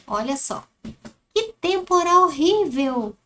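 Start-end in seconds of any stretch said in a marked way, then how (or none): 1.3-3.1 exclamação lida. Shown as a demonstration. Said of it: "conforme a entonação".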